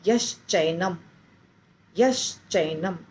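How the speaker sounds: यश चैनम with श running straight into च; joined pronunciation. Shown as a demonstration. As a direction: blend यश चैनम as one word. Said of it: "बन जाता है".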